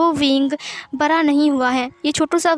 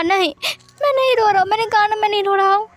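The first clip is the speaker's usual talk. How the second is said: shouted crying denial; 7 semitones higher, faster than usual. Acted. Wing yelling at Wangji that he isn't crying, shouted sob. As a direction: scream the denial through sobs.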